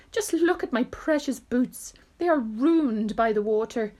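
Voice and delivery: a touch of fussy dismay; dismayed cry. Acted. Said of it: "cried the centipede".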